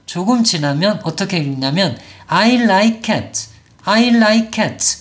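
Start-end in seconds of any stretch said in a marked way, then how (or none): 2.3-5.0 I like cat with "like" as one syllable; no vowel added after like or cat; improved learner reading. Shown as a demonstration. Teacher shows slightly advanced learner reading it well. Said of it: "이렇게 잘 읽어요".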